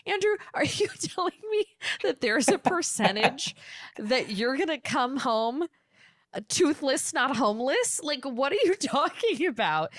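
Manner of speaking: high, laughing, incredulous teasing; laughing disbelief. Retold or imitated. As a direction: tease him through giggles in disbelief. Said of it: "I'm like".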